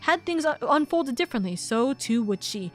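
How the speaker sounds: soft, slowing, solemn read; understated solemn narration; reflective narration. Acted. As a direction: let the last words fade quietly. Reads reflective narration text.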